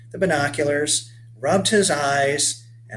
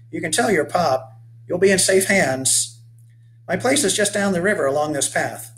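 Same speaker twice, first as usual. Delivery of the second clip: rugged 1830s settler hailing a stranger; weathered old boatman; 4 semitones higher than usual. Acted. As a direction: call out to the boy like a sun-burned old sailor. Sends the boy off.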